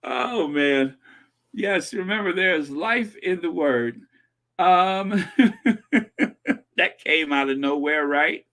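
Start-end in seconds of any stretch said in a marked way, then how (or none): 1.5-4.0 light preacher impression; a hint of mock televangelist; Joyce Myers. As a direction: echo the preacher's catchphrase, milder. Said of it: "I used to do a mean Joyce Myers impersonation".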